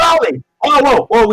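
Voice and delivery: a scared man calling out in a high voice; panicked Leroy. Acted. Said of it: "he says".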